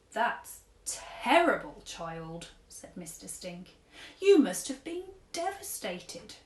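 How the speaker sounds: lightly voiced gentle old man giving advice; a hint of an old gent counselling a girl; kindly old tramp. Old tramp advises sad girl, lightly voiced kindly. Mister Stink consoles Chloe.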